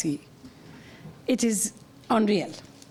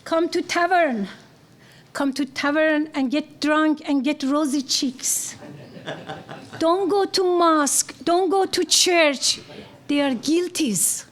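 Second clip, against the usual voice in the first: poetry recitation; 3 semitones higher than usual. Acted. Recites translation of Hafez.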